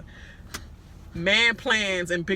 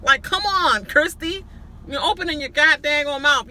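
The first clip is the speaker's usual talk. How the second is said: higher, louder scold; exasperated scolding; 7 semitones higher, 4 dB louder than usual. Real, not acted. Vlogger scolding Christy for talking too much, loud and exasperated. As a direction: tell Christy off, fed up.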